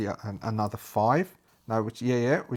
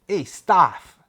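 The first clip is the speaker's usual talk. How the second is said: calling out in Jack's voice; 6 semitones higher, 9 dB louder than usual. Acted. Player voices Jack calling Staff.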